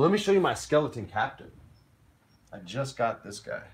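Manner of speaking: usual speaking voice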